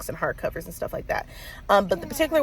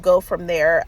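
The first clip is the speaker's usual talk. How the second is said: stuffy nose voice; congested. Real, not acted. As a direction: talk through a blocked nose. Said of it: "I'm congested".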